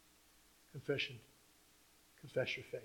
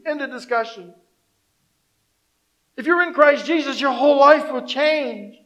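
forceful preacher's assurance; emphatic preaching; 8 semitones higher, 12 dB louder than usual. Real, not acted. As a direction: proclaim it firmly to the congregation.

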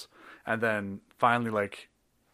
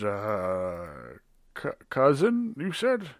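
nervous laughing barkeep. Acted.

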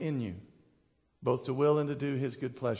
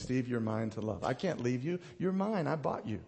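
soft, mostly lowered voice of comfort; tender reassurance; 4 semitones lower, 7 dB quieter than usual. Retold or imitated. God claiming Steve as his own, softly reassuring. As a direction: retell it gently and quietly.

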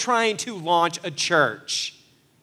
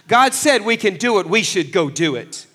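higher and louder, bold Caleb shutting them up; Caleb commanding; 4 semitones higher, 6 dB louder than usual. Retold or imitated. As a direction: take charge of the crowd as Caleb. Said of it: "Caleb gets up and says".

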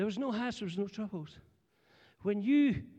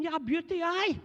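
fake enthusiasm; 7 semitones higher than usual. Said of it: "pretending to be excited as well".

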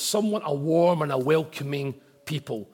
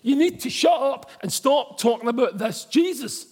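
stern order; 8 semitones higher, 4 dB louder than usual. Retold or imitated. Authorities' order voiced.

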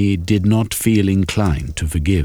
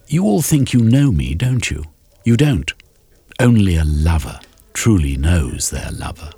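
Shermy's wounded retort. Acted. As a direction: push back at their teasing.

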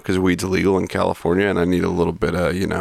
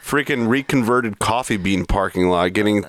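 rising, faster outrage at the sham; indignant; 3 semitones higher than usual. Retold or imitated. Patient retelling the swab test, mock outraged. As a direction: rant about the stranger, pitch climbing. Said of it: "And I'm like".

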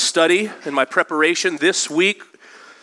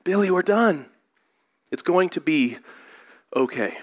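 acted calm, dropping away on "okay"; calm dad; 2 semitones higher than usual. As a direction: reassure yourself in measured pieces, as a patient dad. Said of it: "hear the dad saying again".

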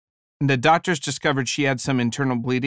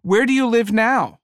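polite lady; 8 semitones higher, 4 dB louder than usual. Retold or imitated. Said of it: "another woman said".

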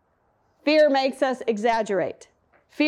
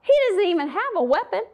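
mocking disbelief; 4 semitones higher than usual. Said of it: "he thought".

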